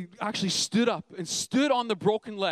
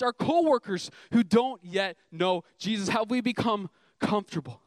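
slower, emphatic preaching; fervent preaching; 4 semitones higher than usual. Acted. Pastor challenging his church, preaching with fervour. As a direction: drive each phrase home to the congregation.

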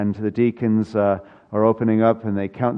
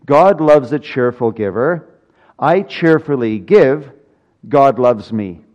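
louder, step by step declaration; emphatic syllogism; 5 dB louder than usual. Acted. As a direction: drive each step home. Preacher builds the syllogism.

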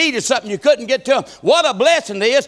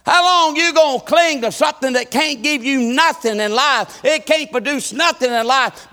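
lightly voiced Paul telling the king; a hint of Paul's testimony; 5 semitones higher than usual. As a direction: preach Paul's words with fervour. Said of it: "he was trying to tell him".

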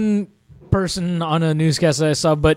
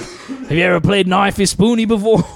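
Simpsons Australian. Retold or imitated. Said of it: "the Simpsons".

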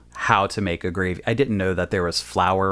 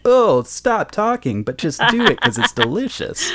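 a cook waving off the fuss, higher; exasperated cook; 10 semitones higher than usual. Retold or imitated. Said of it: "You're like".

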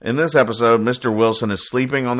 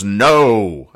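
mock scream; 6 dB louder than usual. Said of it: "Sarge screams".

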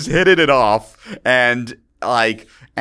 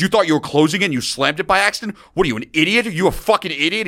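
quick, higher-pitched imitation of outrage; mock berating; 5 semitones higher, faster than usual. Frat brother scolding him for slamming the door, mock berating. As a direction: rattle off incredulous accusing questions.

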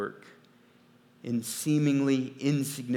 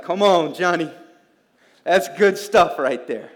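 excited cheering; 5 semitones higher, 11 dB louder than usual. Retold or imitated. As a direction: cheer him on like a happy fan. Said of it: "And I was like".

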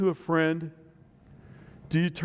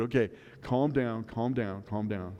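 soothing; 3 semitones lower, 5 dB quieter than usual. Retold or imitated. Dad soothing panicked daughter.

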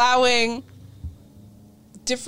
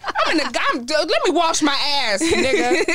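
scared and angry; 2 semitones higher than usual. Pretend. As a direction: swing back, yelling. Acting out shower grab reaction.

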